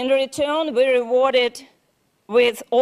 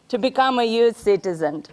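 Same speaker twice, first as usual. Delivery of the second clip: emotional laugh; faster than usual. Real, not acted. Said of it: "I'm emotional".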